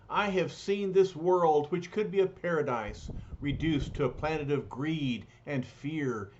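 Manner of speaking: tired, sorrowful, grand speech; lightly voiced lament; weary heartsick hero. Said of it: "the weary, heartsick Silver Surfer speaks".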